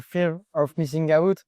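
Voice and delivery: Fear of Missing Out in a heavy French accent; English phrase said the French way. Real, not acted. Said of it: "désolé pour mon accent anglais".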